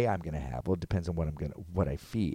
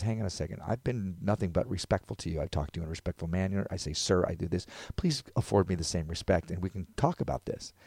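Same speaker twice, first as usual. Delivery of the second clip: soft, even-voiced appeal; calm and respectful; 5 dB quieter than usual. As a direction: reason politely with someone confrontational. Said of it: "it's the calmness".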